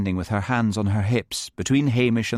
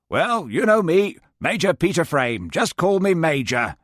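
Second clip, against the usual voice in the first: self-important Major; 9 semitones higher, 3 dB louder than usual. Acted. Major introduces himself.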